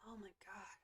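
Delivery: soft unvoiced exasperated whisper. Real, not acted. Exasperated by the screaming cat, whispering. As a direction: breathe it out in a whisper.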